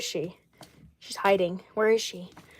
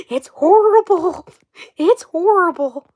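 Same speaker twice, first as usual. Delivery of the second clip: put-on loud, higher, slow farm-girl drawl; exaggerated mock drawl; 7 semitones higher, 6 dB louder, slower than usual. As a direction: drag it out in a mock Southern accent. Exaggerated repeats mocking the accent.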